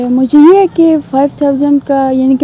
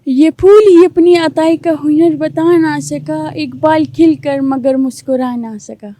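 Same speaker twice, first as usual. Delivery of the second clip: slow couplet recited in a put-on girlish voice; girl's voice poem; slower than usual. Young man reciting a couplet for the host in a girl's voice. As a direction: recite it slowly, as a young woman. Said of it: "لڑکی کی آواز میں سنا دیں".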